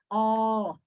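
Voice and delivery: oh held long with open lips; open-lipped O. Shown as a demonstration. Teacher showing the sound, long open oh. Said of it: "you're going to make this gesture".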